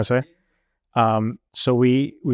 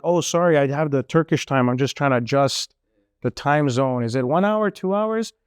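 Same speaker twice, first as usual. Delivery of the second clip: innocent excuse; 3 semitones higher than usual. Retold or imitated. His quick excuse, retold.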